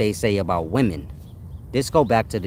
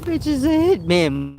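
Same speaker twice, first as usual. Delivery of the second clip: laughing; 13 semitones higher than usual. Real, not acted. Laughing through joke.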